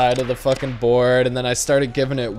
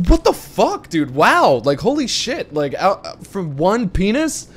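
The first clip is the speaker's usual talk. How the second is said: high, incredulous protest; can't believe this is happening; mock outrage at the punishment; outraged disbelief; 9 semitones higher than usual. Retold disbelief at suspension.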